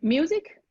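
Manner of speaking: Music lifted high and loud; Music punched up at the start; stressed word. Shown as a demonstration. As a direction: hit Music with a rising lift. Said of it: "I'm gonna read my part".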